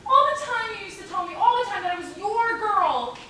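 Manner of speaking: cling to him with every word; pleading. Acted. Bride begging her father not to give her away, a desperate plea.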